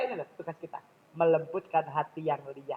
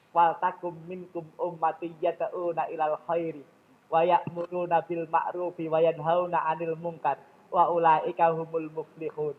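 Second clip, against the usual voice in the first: tilawah ayat. Acted. Membaca ayat Al-Quran.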